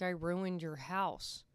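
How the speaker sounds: slow, drawn-out retold whimper; mock crying. Kid confessing to grandma about the mess, mock tearful. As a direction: imitate a crying child's confession, stretched out. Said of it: "He starts crying, and he's like".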